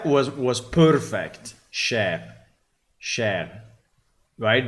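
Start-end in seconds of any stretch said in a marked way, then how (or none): 1.7-3.6 "Share" echoed with the R rolled a bit toward French, ending in a falling tone; French-style R. Retold or imitated. Reviewer echoing the AI voice's "Share" with a French-leaning R. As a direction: say "Share" twice, softening the R the French way. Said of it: "he put the R a bit on the French side".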